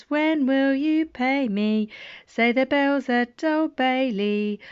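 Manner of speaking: sing-song nursery rhyme. Acted. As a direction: chant it like a playground rhyme. Reading the bells rhyme.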